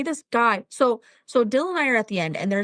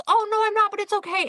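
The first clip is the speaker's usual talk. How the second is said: put-on a lightly higher, sweet old lady; old woman voice; 10 semitones higher than usual. Old woman at the register reassures a stranger, lightly voiced. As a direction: voice the kind old woman gently. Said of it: "And she goes".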